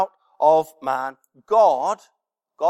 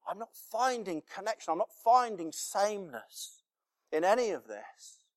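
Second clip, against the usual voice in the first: Adam's voice; 9 dB quieter than usual. Acted. Adam's inner voice, softly.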